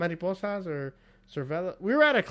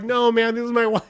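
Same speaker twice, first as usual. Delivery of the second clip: loud, higher mock protest; retold teasing insistence; 6 semitones higher, 6 dB louder than usual. Husband waving at her boyfriend, loud teasing insistence. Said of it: "I continue going like".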